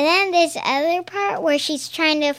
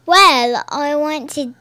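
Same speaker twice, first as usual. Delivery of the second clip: put-on Accent Girl. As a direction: play-act a British accent. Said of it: "how you doing, accent girl?".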